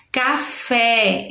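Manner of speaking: "Café" drawn out, ending on open é; open E sound. Shown as a demonstration. Teacher giving example of open sound, "Café" drawn out. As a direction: stretch "Café" with open final é. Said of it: "é um som aberto".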